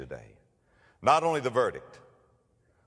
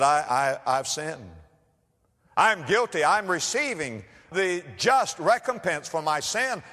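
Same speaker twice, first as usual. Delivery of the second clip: confessing prisoner; 8 semitones higher, 4 dB louder, slower than usual. Retold or imitated. Guilty prisoner confesses to king.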